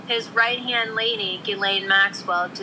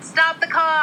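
higher mock order to halt; quoted exclamation, pitched up; imitated call-out; 8 semitones higher, 3 dB louder than usual. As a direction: act out a sudden command. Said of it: "and Ghislaine went".

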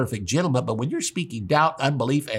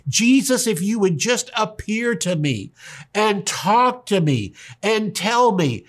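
high, slow, pleading whine; mock complaining prayer; 6 semitones higher, slower than usual. Believer complaining to Jesus in the bedroom, high slow whine. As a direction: mimic a sulky prayer behind a slammed door. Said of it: "and complain".

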